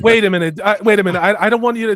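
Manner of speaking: loud, playful objection; loud mock protest. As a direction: cut in loudly, joking.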